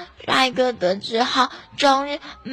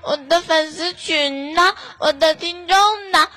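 higher, petulant nagging; a spoiled pout in the voice; whiny complaint; 3 semitones higher than usual. Pretend. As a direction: sulk and nag him.

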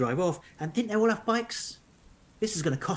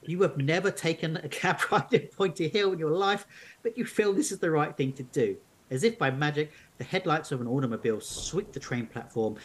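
measured storybook narration; narrating an unfolding mystery tale; story narration. A narrator's reading. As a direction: read the adventure aloud to listeners. Reads the story on.

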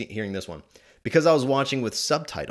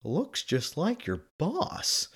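softer, slow, dry muttered aside; suspicious dad; 6 semitones higher, 5 dB quieter, slower than usual. Retold or imitated. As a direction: say it as a wry, knowing jab. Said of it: "He takes another look".

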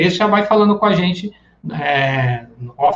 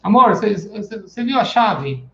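needy partner; 4 semitones higher than usual. Retold or imitated. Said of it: "você é uma pessoa dependente".

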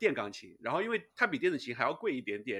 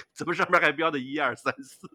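puzzled question; 2 semitones higher, 7 dB louder than usual. Retold or imitated. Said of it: "走到我钢琴旁边儿一看说".

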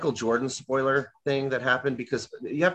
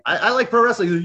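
higher, louder sheepish admission; meek confession; 8 semitones higher, 6 dB louder than usual. Retold or imitated. Fan admitting to friends, a higher sheepish voice. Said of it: "It's like".

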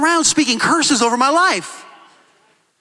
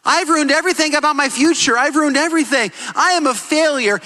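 despairing son; 2 semitones higher than usual. Retold or imitated. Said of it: "He said".

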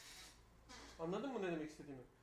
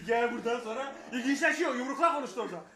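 talking through loud laughter; words bursting out between laughs; laughing; 5 semitones higher, 14 dB louder than usual. Real, not acted. Laughing while telling.

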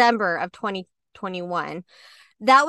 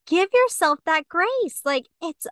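higher, slower, soothing friend voice; a friend easing her guilt, higher and slow; gentle reassurance; 6 semitones higher, slower than usual. Retold or imitated. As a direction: coax her kindly, taking your time. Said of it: "But she was like".

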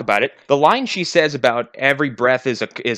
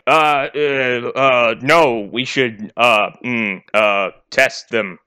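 awkward hesitation; 2 semitones lower, much slower than usual. Retold or imitated. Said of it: "And then awkwardly walks away".

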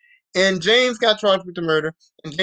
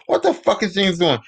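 disgusted outburst. Retold or imitated. Alyssa spotting James stalking her, now an exasperated outburst. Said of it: "She's like".

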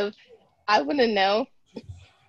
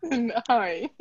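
put-on terrible British accent. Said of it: "You had a terrible British accent".

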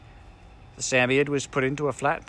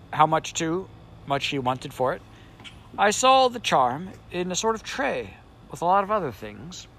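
higher, fussy sand-fairy voice; Samiad voice; 6 semitones higher than usual. Acted. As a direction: play the grumpy magic creature. Samiad describes the charm.

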